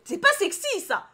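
very high, loud protest; indignant outburst. Real, not acted. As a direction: squeal it in outrage. Shouted repeat of the calm take. (protestation indignée, très aiguë et forte)

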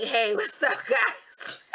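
a hint of a put-on hello; pretend greeting voice. Vlogger offers viewers an alternative intro, mock greeting. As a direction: greet viewers in a lightly mocking voice. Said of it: "Or would you like me to be like".

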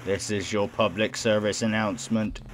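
even, robotic public service announcement; measured robot voice; robotic announcer. Acted. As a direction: read it like an automated announcement. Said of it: "The voice is robotic".

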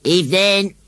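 loud rustic scarecrow greeting; a creaky countryman's hello. Acted.

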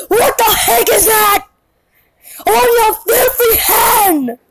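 high-pitched outraged holler; puppet yelling. Acted. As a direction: yell it in mock outrage. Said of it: "puppet, don't yell!".

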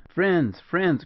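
called out high and loud; crying out. A narrator's reading. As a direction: cry out gladly to the people inside. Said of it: "cried the partisan".

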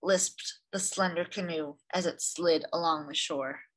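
gentle read-aloud storyteller; story narration. A narrator's reading. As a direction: read it like a picture book for children. Reads picture book aloud.

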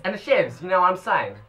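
put-on Aussie bogan; mock Australian, broad vowels; bogan accent. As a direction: play the outback bogan. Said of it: "we're going Bogan".

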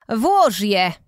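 ciepło namawia, głośniej; podsuń korale z zachętą; zachęcająco. A narrator's reading. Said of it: "zachęciła". (wiedźma zachęca Annę do włożenia korali)

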